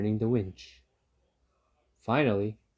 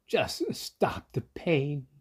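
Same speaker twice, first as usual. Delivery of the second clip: slow, higher whimper; 5 semitones higher, much slower than usual. Acted. Fox in pain begging the dentist, slow whimper. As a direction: whimper out the plea. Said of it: "whimpered the fox".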